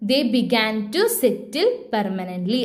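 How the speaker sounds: slow, spaced words for note-taking; slow dictation. Shown as a demonstration. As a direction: read it out at writing pace. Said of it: "മൂന്നാമത്തെ point എന്ത് എഴുതാം?". (പതുക്കെ എഴുതിക്കുന്നു)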